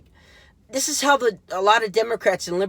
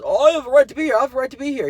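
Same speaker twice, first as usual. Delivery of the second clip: high, loud whiny mimicry of the activist; mocking impression; 10 semitones higher, 7 dB louder, much faster than usual. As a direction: parody him in a high, squeaky, self-righteous voice.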